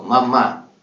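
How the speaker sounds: daughter's spirit gently pleading with her grieving mother; dead daughter pleading. Acted. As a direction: beg your mother to stop crying, from beyond. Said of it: "Su hija dijo".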